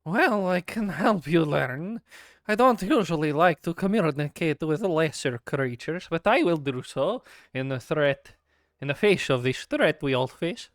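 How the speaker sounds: slow, proud creature; haughty creature voice. Acted. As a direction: talk down to lesser creatures.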